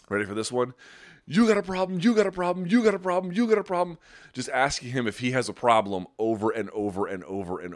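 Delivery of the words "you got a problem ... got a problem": high, loud, repeated confrontational challenge; aggressive yelling. Retold or imitated. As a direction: get in his face and hammer the question. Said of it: "in his face fucking screaming".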